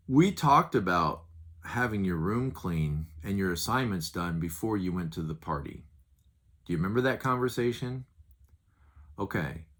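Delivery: calm, even talk to a son; calm parent talk. Shown as a demonstration. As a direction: lay it out calmly to your child. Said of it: "watch this".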